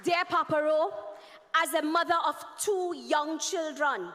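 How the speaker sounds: earnest reading of a letter; formal letter reading. Acted. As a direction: read it like a heartfelt address. Reads an open letter aloud.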